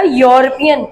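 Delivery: यूरोपियन starting on a clear "yo"; opening Y sound. Shown as a demonstration. Teacher explaining the article to students, यूरोपियन with Y onset. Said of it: "वाई का sound आ रहा है".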